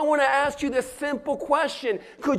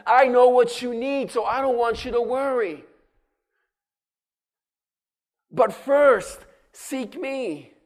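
voicing God. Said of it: "God says it like this".

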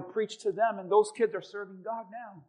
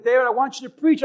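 retold call; 5 semitones higher, 10 dB louder than usual. Pastor's announcement retold.

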